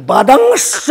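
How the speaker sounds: বাদাংশ drawn out slowly on the ng; laboured anusvara demo. Shown as a demonstration. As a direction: stretch the ng in বাদাংশ, then push out the last syllable. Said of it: "অত দরকার নেই".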